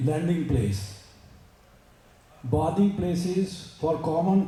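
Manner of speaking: slow, measured English recitation; formal read-aloud. Acted. Speaker reading a great woman's story to listeners, slow formal read-aloud. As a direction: read it out word by word, slowly.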